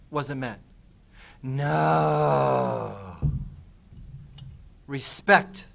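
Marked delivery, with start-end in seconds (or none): 1.4-5.7 loud, clipped words from an upset wife; upset wife correcting her husband loudly; angry correction. Retold or imitated. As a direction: throw each word back, irritated. Upset wife corrects his guess.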